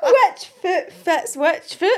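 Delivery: slow, high and loud through laughter; laughing. Real, not acted. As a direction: giggle your way through it.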